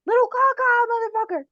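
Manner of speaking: high, far screeching voice; shrill screeching bird woman. Acted. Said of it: "If Mimi starts yelling out".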